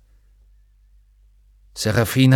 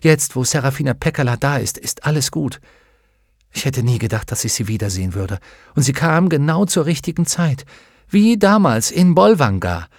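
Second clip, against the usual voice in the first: put-on lifted, lightly excited girl's voice; happy chatter; 4 semitones higher than usual. Lyra relieved that the witch is here, happily chattering. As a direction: chatter happily, pitch climbing toward the end. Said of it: "Glücklich plappernd".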